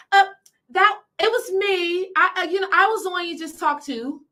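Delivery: high, halting, caught-out clerk voice; sheepish clerk. Retold or imitated. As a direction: stammer like someone caught out. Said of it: "she said".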